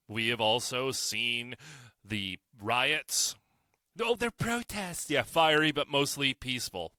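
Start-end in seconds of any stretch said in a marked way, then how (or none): 4.0-6.9 sarcastic mock. Real, not acted. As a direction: roll your eyes at the phrase. Mocking media phrase.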